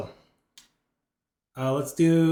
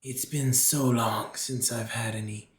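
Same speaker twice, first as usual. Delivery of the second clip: slow, menacing creature whisper; low growly voice; slower than usual. Acted. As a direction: coax them in, hungry and low. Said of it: "You hear a low, growly voice".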